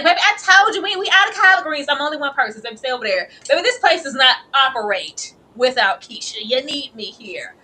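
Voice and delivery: high, loud busy cook brushing people off; sassy Keisha. Acted. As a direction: play the overworked cook shooing folks away. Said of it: "It's like".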